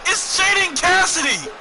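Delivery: high, loud and slow, stretching the name; drawn-out announcer shout. Acted. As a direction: drag the name out for the crowd. Announcing a wrestler's entrance.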